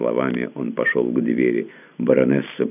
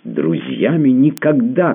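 slow, much higher, louder shout; cry out; 10 semitones higher, 4 dB louder, slower than usual. A narrator's reading. Tamara refusing the prince's friendship, a slow high cry. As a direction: fling the words at him, drawn out. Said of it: "крикнула она".

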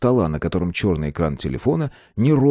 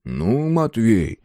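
soft; 5 semitones higher than usual. A narrator's reading. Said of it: "и мягко сказал".

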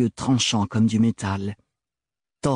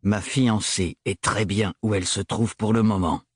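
leaden voice. Acted. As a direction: shut him down. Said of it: "d'une voix de plomb".

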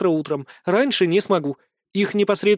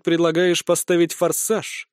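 thoughtful; slower than usual. Acted. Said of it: "задумчиво произнёс я".

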